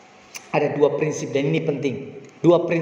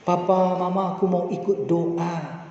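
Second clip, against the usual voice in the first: put-on pleading child; slower than usual. Father imitating his small son begging to join prayer, slow and pleading. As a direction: beg like a three-year-old asking to come along. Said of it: "dia memelas".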